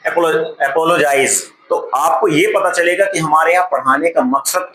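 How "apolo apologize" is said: very slow, word by word; reading the title aloud. Shown as a demonstration. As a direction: read the heading out slowly. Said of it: "difference क्या है". (शीर्षक धीरे-धीरे पढ़ना)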